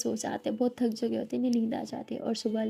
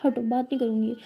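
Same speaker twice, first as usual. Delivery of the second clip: sulky; 5 dB louder than usual. Acted. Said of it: "लिली बोलती".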